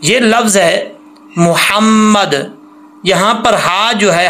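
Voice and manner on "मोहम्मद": slow मोहम्मद with a thin throat h and held mm; fine haa. Shown as a demonstration. Teacher introducing the word, careful मोहम्मद. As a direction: breathe the h of मोहम्मद from the throat, linger on m. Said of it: "हा बरीक है".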